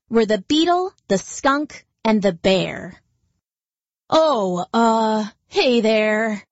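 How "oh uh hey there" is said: sheepish. Acted. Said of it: "he said a little sheepishly".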